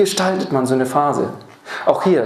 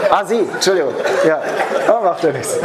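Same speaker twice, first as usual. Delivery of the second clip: laughing apology; 3 semitones higher than usual. Real, not acted. Speaker laughing off a mix-up with an audience member, laughing apology. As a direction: apologise through a real laugh.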